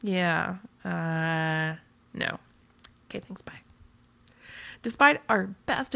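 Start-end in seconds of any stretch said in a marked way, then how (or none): 0.0-3.6 whispered aside. Acted. Blogger backing out of the demonstration, whispered aside. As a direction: whisper it away under your breath. Awkward muttered sign-off aside.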